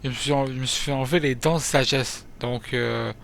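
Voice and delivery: speaking with a swollen mouth; after wisdom teeth. Real, not acted. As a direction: talk around a sore jaw. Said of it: "désolé si je parle un peu mal".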